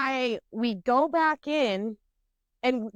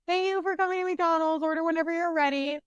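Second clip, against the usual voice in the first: higher, chirpy service voice, a bit quick at the end; drive-thru worker voice; 6 semitones higher than usual. Retold or imitated. Mimicking the McDonald's lady at the speaker box, higher chirpy service voice. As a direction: imitate the bored drive-thru greeting. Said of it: "the lady, you know, goes".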